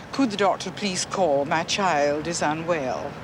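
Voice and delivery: lightly voiced genteel Morningside English; a hint of Morningside formality; refined Morningside caller. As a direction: imitate a polite Morningside caller, slowing at the end. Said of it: "you would get someone phoning their doctor".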